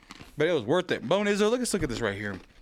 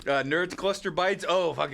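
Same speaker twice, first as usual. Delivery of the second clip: talking through a mouthful of candy; words round a big bite; mouth full. Real, not acted. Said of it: "His mouth is literally full".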